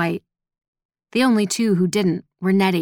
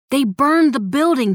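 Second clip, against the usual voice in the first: urgent; 7 semitones higher, 4 dB louder than usual. Acted. Urgent bad news.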